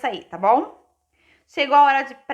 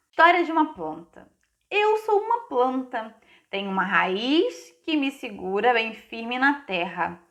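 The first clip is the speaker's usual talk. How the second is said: put-on story read to children; 3 semitones higher than usual. Reads a plant's story to children.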